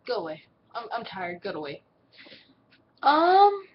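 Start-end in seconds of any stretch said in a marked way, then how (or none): 0.1-1.8 sleepy grumbling. Retold or imitated. Grumpy reply to morning compliment.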